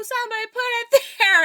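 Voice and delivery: high, rushed excuse breaking into laughter; laughing excuse. Retold or imitated. Friend blaming someone else for the pole, high and rushed. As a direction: blurt a silly excuse through laughs.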